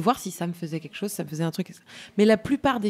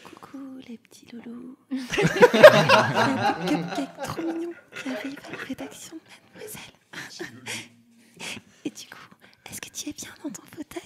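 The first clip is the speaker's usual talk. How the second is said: giggly ASMR whisper; 5 semitones higher, slower than usual. Retold or imitated. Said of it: "c'est souvent".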